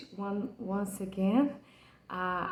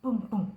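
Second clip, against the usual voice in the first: heartbeat imitation. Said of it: "like the beating of a heart".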